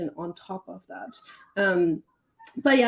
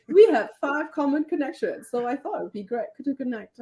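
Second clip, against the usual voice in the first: higher-pitched imitation of a template pitch; put-on, high networker voice that eases down; mocking message voice; 6 semitones higher than usual. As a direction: parody a cold connection request. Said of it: "I love that voice".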